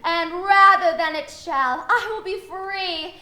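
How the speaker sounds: overacted stage speech, stretched on anger; milk every word for drama; hammy Shakespeare.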